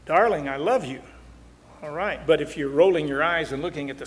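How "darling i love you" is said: more feeling, with a lift on love; warmly stressed declaration of love; heartfelt declaration. Shown as a demonstration. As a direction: say it like you mean it. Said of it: "it's rather flat".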